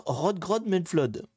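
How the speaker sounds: put-on Rodgrod Medflod said slowly, trying for a Danish accent; Danish accent attempt. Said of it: "pardonnez mon accent".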